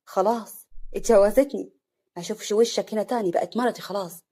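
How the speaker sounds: angry. Acted. Slim warning off the bride's former husband, mildly angry. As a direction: warn him off with understated anger. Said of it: "سليم بغضب".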